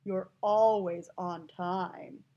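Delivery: slow, low-pitched, drawn-out sarcasm; heavily sarcastic, dragging the vowels. Shown as a demonstration. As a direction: stretch ALWAYS in mock praise. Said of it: "if he's being sarcastic".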